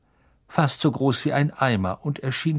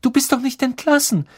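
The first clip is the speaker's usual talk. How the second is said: much higher loud gasp; alarmed call; 13 semitones higher, 4 dB louder, faster than usual. A narrator's reading. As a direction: cry out in alarm. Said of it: "rief Hermine".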